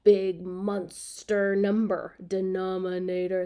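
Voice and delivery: playful monster voice, slow and stretched; drawn-out, level monster intonation; big monster. Shown as a demonstration. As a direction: lumber through the words like a monster. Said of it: "that just sounds like a".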